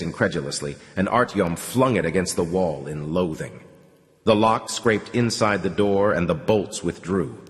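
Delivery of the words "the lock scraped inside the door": ordinary delivery, nothing marked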